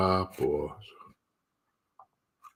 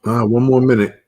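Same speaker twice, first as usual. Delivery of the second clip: excited; 5 semitones higher, 11 dB louder than usual. Real, not acted. Countdown to market news.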